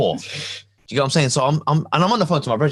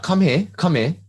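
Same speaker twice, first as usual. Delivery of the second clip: imitated Caribbean accent, slightly raised; 5 semitones higher than usual. Imitating the man in the car, Caribbean accent. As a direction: mimic a Caribbean man's repeated summons. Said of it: "it was like a Caribbean accent".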